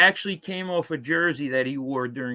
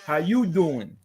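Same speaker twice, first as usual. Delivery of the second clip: smooth Joey from Friends How you doing; Joey's pickup line. Shown as a demonstration. Joey practices the Friends line, smooth flirt. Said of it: "did you practice".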